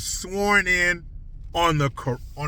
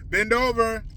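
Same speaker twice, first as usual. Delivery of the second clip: lightly put-on New York voice, higher; mock New York accent; 4 semitones higher than usual. Mock New York voice telling the city to bend over. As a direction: sneer it like a New York wiseguy. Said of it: "the new New York accent".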